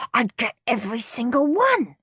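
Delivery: resentful. A narrator's reading. Henry thinking about his gizmo collection, resentful. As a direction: sulk over what should be yours. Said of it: "thought Henry resentfully".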